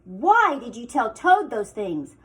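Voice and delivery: snapped. Acted. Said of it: "she snapped".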